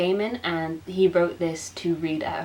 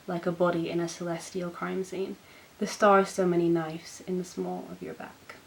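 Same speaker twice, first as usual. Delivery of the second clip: poem reading. Acted. Reading her poem aloud to viewers, measured. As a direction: read it like a love poem to an audience.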